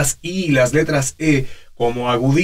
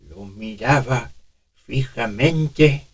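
put-on toothless old man; 3 semitones lower, slower than usual. Shown as a demonstration. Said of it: "Simular una dentadura postiza".

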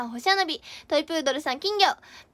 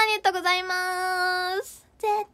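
ordinary talk, nothing marked

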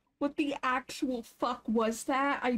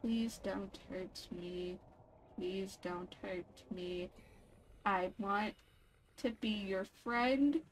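quiet pleading; 6 semitones lower, 7 dB quieter than usual. Pretend. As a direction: beg softly so it won't attack. Pleading with a creature.

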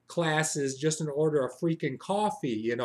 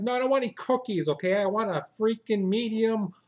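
annoyed refusal; 4 semitones higher than usual. Retold or imitated. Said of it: "I'm like".

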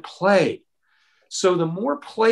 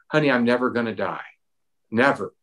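reassuring father; 6 semitones lower, faster than usual. Retold or imitated. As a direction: lower and steady, a father calming his son. Father reassuring scared son.

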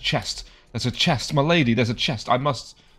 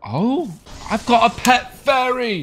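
pixie; 10 semitones higher, 3 dB louder, slower than usual. Real, not acted. Delighted at new pet.

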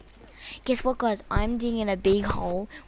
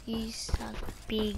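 whisper; 6 dB quieter, slower than usual. Real, not acted. Whispered taunt.

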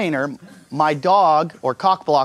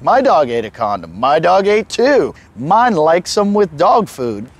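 forum posters; 4 dB louder, slower than usual. Retold or imitated. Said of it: "Thousands of people were like".

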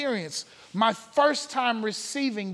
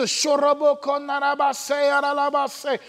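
speaking in tongues; 3 semitones higher than usual. Shown as a demonstration. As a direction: roll out the prayer language freely, like it's pouring out. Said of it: "I begin to speak in tongues".

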